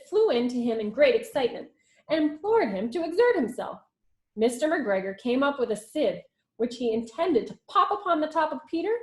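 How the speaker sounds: put-on lively read-aloud storytelling for children; story narration. A narrator's reading. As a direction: read it like a teacher to the class. Teacher reads story aloud.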